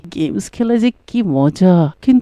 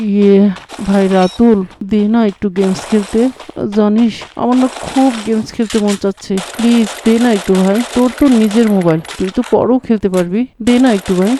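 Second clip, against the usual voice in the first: gently coaxing, a touch softer; soft, begging tone to a friend; soft pleading; 2 semitones lower than usual. Acted. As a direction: wheedle your friend sweetly. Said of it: "নরম সুরে বলে".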